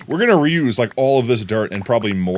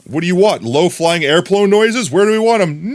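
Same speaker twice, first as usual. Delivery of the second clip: loud, high excited calls; shouted silly questions; shouting; 8 semitones higher, 6 dB louder than usual. Real, not acted. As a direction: yell it out playfully.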